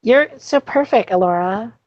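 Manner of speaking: high, eerie doll voice; sing-song creepy doll. Acted. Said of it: "Why are you saying it in a creepy doll voice".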